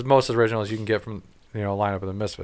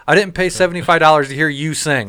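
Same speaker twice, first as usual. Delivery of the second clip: imagined telling-off; 2 semitones higher than usual. Retold or imitated. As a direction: chew out the superfan. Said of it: "grab him and be like".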